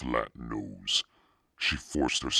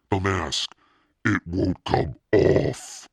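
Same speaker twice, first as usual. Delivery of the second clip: higher, louder, slow desperate wail; panicked cry; 6 semitones higher, 8 dB louder, slower than usual. A narrator's reading. Girl trapped in the mask, desperate wail. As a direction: plead in rising panic.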